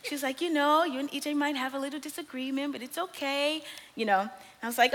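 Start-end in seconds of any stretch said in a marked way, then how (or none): 0.4-3.6 sweet-talking friend. Retold or imitated. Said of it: "She talks like this and so sweet".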